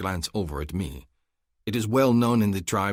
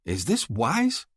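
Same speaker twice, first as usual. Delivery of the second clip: demanding; 5 semitones higher, 3 dB louder, slower than usual. Acted. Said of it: "Hassan demands".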